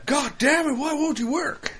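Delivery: high, loud frustrated cry; pleading with a machine. Pretend. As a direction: yell at a machine that won't work. Frustrated gamer yelling at console.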